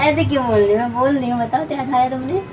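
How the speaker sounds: soft fake lisp; quiet childish mispronunciation; put-on lisp. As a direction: lisp it softly, feigning innocence. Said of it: "तो तला के क्यों बोल रही है?".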